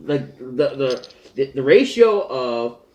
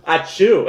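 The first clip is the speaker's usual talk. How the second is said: mock sneeze; 2 semitones higher, 4 dB louder than usual. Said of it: "Alan just looked at it and went".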